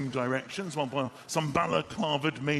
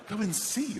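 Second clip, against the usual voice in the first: higher, questioning "see"; incredulous echo; 6 semitones higher than usual. Acted. Husband told to check downstairs, incredulous echo. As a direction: throw the order back in disbelief. Husband echoes wife's order in disbelief.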